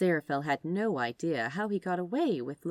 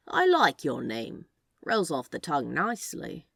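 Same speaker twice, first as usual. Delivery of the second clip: lightly voiced Crowley, a louder flirty purr; Crowley's voice; 2 semitones lower, 4 dB louder than usual. Crowley complimenting Aziraphale's name, a lightly voiced louder flirt. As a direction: savour the compliment as a sly charmer.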